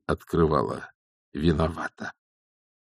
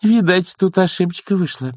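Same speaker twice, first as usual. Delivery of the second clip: high nanny voice, mildly placating; smooth it over in a higher pitch; gentle suggestion; 11 semitones higher than usual. A narrator's reading. Nanny tries to settle the matter, mildly gentle. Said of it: "мягко сказала нянюшка Яг".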